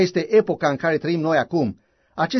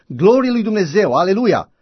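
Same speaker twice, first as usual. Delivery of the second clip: shouting; 3 semitones higher than usual. Retold or imitated. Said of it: "cineva strigă".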